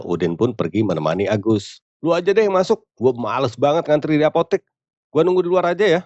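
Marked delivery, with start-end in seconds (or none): 2.0-6.0 high-pitched, mildly whiny refusal; grumbling. Acted. Udin refusing to queue at the pharmacy, grumbling. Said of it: "Sambil ngomel".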